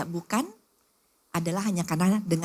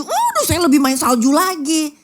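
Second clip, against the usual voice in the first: one-upping; 6 semitones higher, 8 dB louder than usual. Acted. The friend outdoing her.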